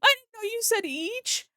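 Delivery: high, loud shocked wait a minute; double-take of real disbelief; stunned disbelief. Real, not acted. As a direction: streamer realizing a donation was far bigger, shocked. Realizing the donation was bigger.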